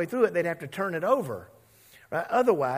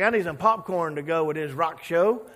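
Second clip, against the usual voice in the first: gleeful Jonah; 4 semitones higher, 4 dB louder than usual. Retold or imitated. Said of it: "He's like".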